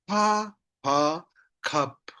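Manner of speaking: "Pa, pa" apart, then short "cup"; spelling out. Shown as a demonstration. Teacher shows how we read, letters apart then blended "cup". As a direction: sound out both letters, close on "cup". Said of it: "like this".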